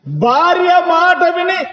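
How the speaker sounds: high, slow stress on భార్య మాట విని; emphatic preaching. Real, not acted.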